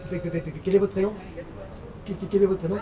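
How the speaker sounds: lightly acted stutter on the first syllables; a hint of a stammer; mock stutter. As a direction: repeat the opening sounds before getting it out. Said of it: "Vous bégayez".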